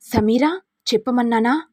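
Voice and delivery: a touch of anger on the name; mildly angry demand. Acted. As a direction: press her to speak, irritated. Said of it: "ఇక దర్శన్ కోపంతో".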